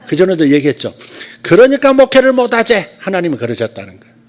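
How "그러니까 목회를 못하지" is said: high, loud Gyeongsang rebuke; sharp Gyeongsang dialect. Retold or imitated. Retelling the prophetess's rebuke, sharp Gyeongsang dialect, high and loud. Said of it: "날카로운 경상도 사투리".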